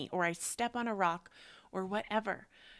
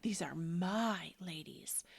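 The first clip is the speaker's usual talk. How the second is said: elk's claim; slower than usual. Acted. Voicing the elk's charge.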